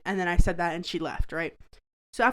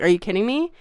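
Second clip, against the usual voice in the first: a bit louder, incredulous are you kidding me; retold outburst of disbelief, raised voice; disbelieving outburst; 5 dB louder, faster than usual. Narrator hearing of the betrayal, mild incredulous outburst. Hearing friend is cuddling Mike.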